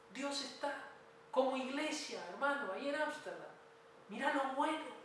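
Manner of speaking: rally the congregation with conviction; preacher's rousing appeal; fervent preaching. Real, not acted. Preacher urging the church on.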